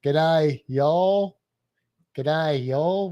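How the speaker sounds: Australian g'day merged with Southern y'all; lightly mixed Australian and American South accent; Australian-Southern blend. Shown as a demonstration. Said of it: "with that Australian, Southern American merging".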